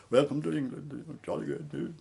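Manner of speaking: put-on a jokey English bobby welcome in a British accent; mock British accent. Narrator mocking the breezy English customs welcome in a British accent.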